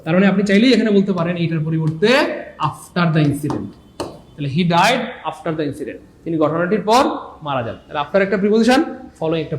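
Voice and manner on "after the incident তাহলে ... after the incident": slow dictation. Shown as a demonstration. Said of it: "teacher reads phrase slowly".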